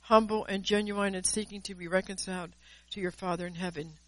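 measured, solemn prophecy in God's voice; prophetic word. Acted. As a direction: speak as God calling his child home.

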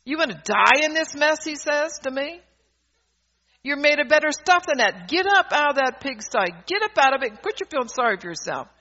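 lightly voiced severe God scolding; stern fatherly command, mildly acted; a hint of a stern God. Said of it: "God speaks very severely to you".

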